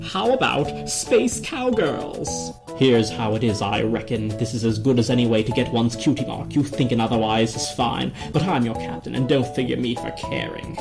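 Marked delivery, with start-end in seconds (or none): 2.8-10.8 slow Western drawl; cowboy drawl. Acted. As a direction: space cowboy captain. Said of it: "you sound just like my cousins, the Oranges".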